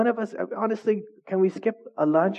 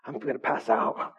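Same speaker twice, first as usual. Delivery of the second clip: dramatic complaining; 4 semitones lower, 4 dB quieter than usual. Retold or imitated. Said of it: "making it a big old commotion".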